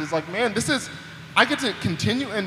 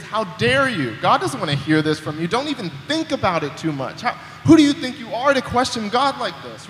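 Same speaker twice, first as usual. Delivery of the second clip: accusing inner voice; 2 semitones higher than usual. Retold or imitated. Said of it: "that little voice comes into your ear and says".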